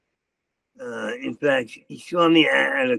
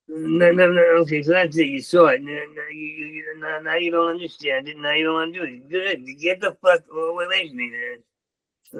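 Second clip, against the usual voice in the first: higher-pitched, stammering mock upset; acted hurt rebuff; 3 semitones higher than usual. Sending the pursuer away, acted hurt. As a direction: push them away as if wounded.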